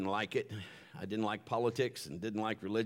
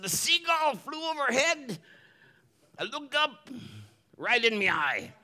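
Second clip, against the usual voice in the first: a hammed-up pirate pitched much higher; 11 semitones higher than usual. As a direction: tell the seagull mishap as a squawky old pirate. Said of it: "my pirate voice".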